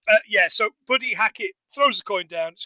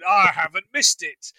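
put-on terrible English accent; 3 dB louder than usual. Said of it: "in terrible English accent".

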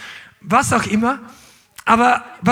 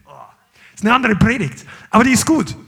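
ordinary talk

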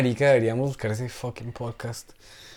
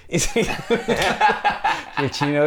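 ordinary talk, nothing marked

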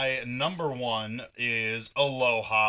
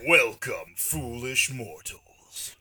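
dark lord; 4 dB louder, much slower than usual. Pretend. Spooky theme-park host greeting.

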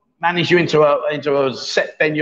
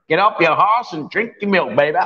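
put-on Texas accent. Host mocking a hat from Korea, hammed-up Texas accent. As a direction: have a stab at a hammy Texan accent. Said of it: "That was like a Texas".

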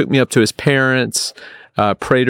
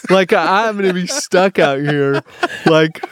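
mock-desperate, pitched up; retold panic; 7 semitones higher than usual. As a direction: replay being stranded, pleading and exasperated. Retells fear of being stranded.

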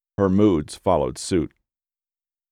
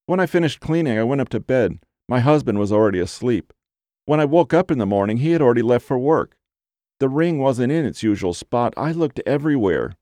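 higher, fretful client voice; a lightly voiced anxious housewife; whiny woman voice; 4 semitones higher than usual.

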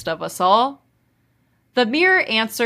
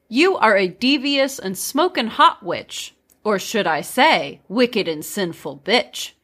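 poem reading. Shown as a demonstration. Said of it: "I'm gonna read it".

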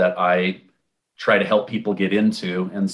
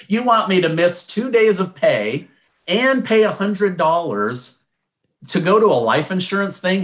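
incredulous; 7 semitones higher than usual. Retold or imitated. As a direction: act stunned by the cost. Retold disbelief at seminar cost.

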